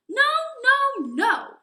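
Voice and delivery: high, loud, frightened no; squealing little wolves refusing; loud refusal. Acted. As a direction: shout the refusal through the door.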